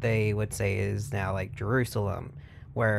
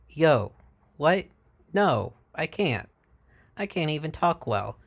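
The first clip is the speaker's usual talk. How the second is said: higher, whiny reluctant voice, slowing down; Moses protesting; 5 semitones higher than usual. Retold or imitated. Moses balking at God's order, high and pleading. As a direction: Moses flustered, backing away from the job.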